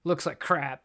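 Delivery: lightly mocking Southern grumbler; put-on Southern accent, playful complaint. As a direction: grumble it with a touch of Southern twang. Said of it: "Now I'm doing a Southern accent".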